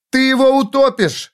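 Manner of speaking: high, urgent cry; alarmed shout. Acted. Robin begging Foyle to stop drowning him, alarmed shout. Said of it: "закричала Робин".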